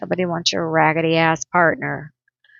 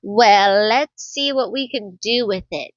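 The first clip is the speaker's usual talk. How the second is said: sly challenge. Pretend. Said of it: "you're like".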